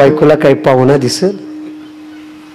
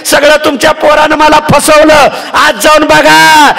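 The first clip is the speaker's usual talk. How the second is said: wailing daughter-in-law; 11 semitones higher than usual. Acted. Wife wails to father-in-law.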